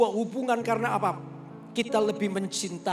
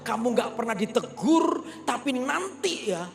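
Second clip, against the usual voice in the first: raised, higher, urgent preaching; passionate fatherly lecture; 7 semitones higher, 5 dB louder than usual. Retold or imitated. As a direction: nasihat ayah yang berapi-api, lebih keras dan tinggi. (ayah menegur anak dengan suara keras dan tinggi)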